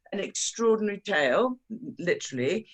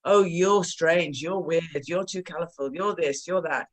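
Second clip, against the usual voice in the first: brown horses. Acted. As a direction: drag out the teasing like snooty horses. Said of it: "brown horses say".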